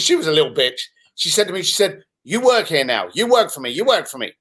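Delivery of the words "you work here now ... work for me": mock Asian accent. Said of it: "I apologize if I'm offending anyone with the accent".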